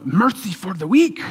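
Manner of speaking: badly faked Asian accent, rising at the end; poor Asian accent. Good coach holding the bully by the collar, poor Asian accent. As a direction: attempt a hint of an Asian accent. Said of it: "that's a poor accent".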